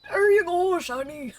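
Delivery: hammed-up old geezer calling out; old man voice. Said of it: "It's really hard to do an old man voice".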